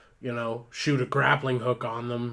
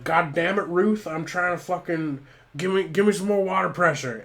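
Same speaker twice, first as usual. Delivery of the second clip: raised pitch, loud and exasperated; acted yelling firefighter; 6 semitones higher, 4 dB louder than usual. Benny battling flames demands pressure from Ruth, acted yell. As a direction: yell for help mid-task. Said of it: "he's just screaming".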